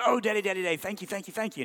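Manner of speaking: put-on high, gushing child's thanks; a small boy delighted with his gift; thrilled little boy.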